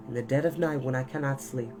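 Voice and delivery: plain reading voice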